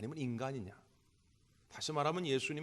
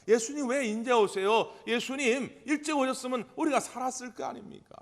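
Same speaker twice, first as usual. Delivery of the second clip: grieving reproach; 10 semitones higher, 9 dB louder than usual. Retold or imitated. Martha reproaching Jesus.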